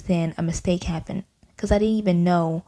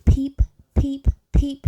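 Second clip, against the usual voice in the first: high, louder giggly peeps; louder peeping; 8 semitones higher, 3 dB louder, slower than usual. A narrator's reading. Girl peeping louder, high and giddy. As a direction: peep out of control. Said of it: "peeping louder and louder".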